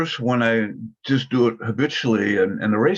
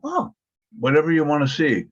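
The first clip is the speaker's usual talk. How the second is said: higher-pitched, easygoing mock reply; accommodating reply; 4 semitones higher than usual. Nine answering friends about which movie to see, accommodating. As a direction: go along with it in a lifted voice.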